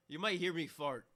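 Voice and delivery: deadpan TV host quote; imitating Jimmy Kimmel; mock host line. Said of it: "all of a sudden he just goes".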